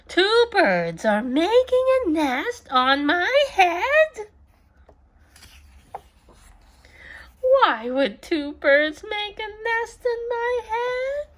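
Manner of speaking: high, rising worried questions; alarmed. Acted. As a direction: fret in growing disbelief. Gerald alarmed about the nest.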